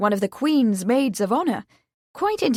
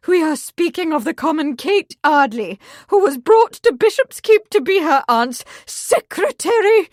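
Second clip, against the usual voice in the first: higher, louder contempt; mother scorning the secretary; scornful; 7 semitones higher, 7 dB louder than usual. Acted. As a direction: sneer at the common girl.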